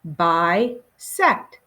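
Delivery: Bisect drawn out as bi, pause, sect; syllable by syllable. Shown as a demonstration. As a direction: lead a class through "Bisect" in two beats. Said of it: "Let's say it together".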